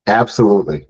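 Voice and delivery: loud, emphatic agreement. Real, not acted. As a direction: say it with strong conviction. Emphatic agreement, then repeated whisper.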